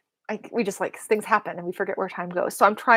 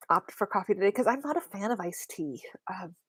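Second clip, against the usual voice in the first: whispering; 5 dB quieter than usual. Real, not acted. Aside while sipping iced coffee.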